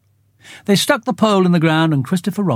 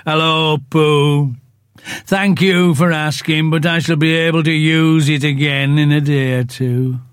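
gloomy Eeyore. Acted. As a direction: drag each word out like a sad old donkey. Eeyore voiced in story.

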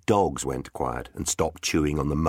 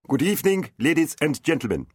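higher, lightly voiced gentle knight; soft as fox fur; 9 semitones higher, faster than usual. A narrator's reading. Knight greets the tavern crowd, soft and smooth. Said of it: "in a voice as soft as fox fur".

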